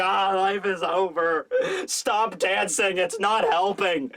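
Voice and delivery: slow, drawn-out moan; hammed-up miserable wail without real tears; mock crying. Crying comrades begging the dancers to stop, mock misery. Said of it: "Everyone else is just, like, crying".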